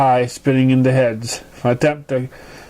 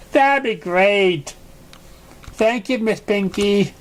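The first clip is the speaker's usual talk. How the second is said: put-on polite young pony; 5 semitones higher, slower than usual. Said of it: "Dickie said".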